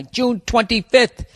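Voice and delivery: drawn-out mock searching for the date. Shown as a demonstration. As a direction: say it like you're reading it off. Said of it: "Could you hear me looking for the date".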